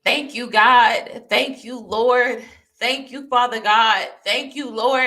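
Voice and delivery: loud, slow cries of thanks to God; retold yelling praise. Retelling how she yelled thanks to God in her apartment, loud praise. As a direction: call out thanks to God over and over. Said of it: "I couldn't stop yelling".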